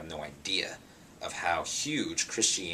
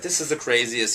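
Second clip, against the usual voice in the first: excited; 6 semitones higher, 8 dB louder than usual. Retold or imitated. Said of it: "He was bugging out".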